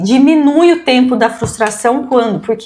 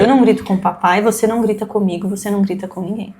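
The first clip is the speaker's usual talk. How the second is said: calm steady voice. Shown as a demonstration. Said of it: "a gente mantém o tom de voz".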